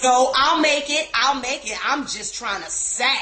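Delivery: imitating a cousin's huffy protest; pissed. Host mimicking her pissed cousin insisting, mock angry. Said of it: "She's pissed".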